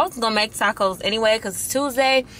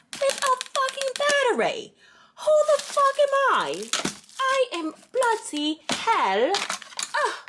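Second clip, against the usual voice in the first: mock crying. Whining about the missing battery.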